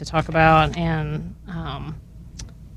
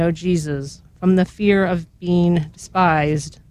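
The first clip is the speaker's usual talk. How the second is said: measured, reverent litany reading; solemn litany with falling responses; recited litany prayer. Real, not acted. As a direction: pray each petition evenly, letting the response fall away.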